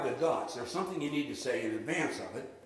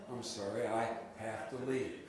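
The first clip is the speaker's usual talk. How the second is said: a little sad; 4 semitones lower, 5 dB quieter than usual. Shown as a demonstration. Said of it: "a little soulful, a little bit sad".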